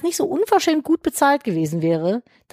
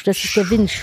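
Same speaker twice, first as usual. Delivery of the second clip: spooky wind sound. Pretend. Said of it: "Stimmung machen".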